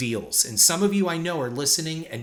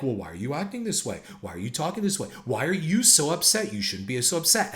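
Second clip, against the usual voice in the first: mock victim whine; faster than usual. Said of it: "they act like".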